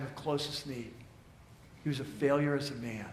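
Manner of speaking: subdued, low-key reflection with long pauses; solemn preaching. Real, not acted. Preacher telling how Peter saw his failure, solemn preaching. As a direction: let each grim verdict sink in.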